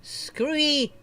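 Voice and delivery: high giggly voice through laughter; cracking up mid-sentence; laughing. Real, not acted. Laughing at the nickname Screwy.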